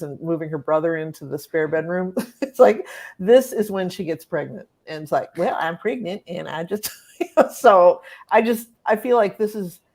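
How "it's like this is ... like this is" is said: laughing. Real, not acted. Laughing while telling trashy girl story.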